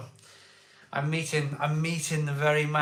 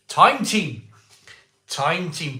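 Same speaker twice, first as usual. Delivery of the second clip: loud triumphant answer; 3 semitones higher, 6 dB louder, slower than usual. Real, not acted. Answering his own quiz, loud.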